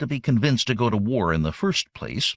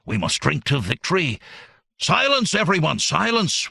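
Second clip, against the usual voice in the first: booming alien command; 5 semitones higher than usual. Acted. Alien demands silence for toast.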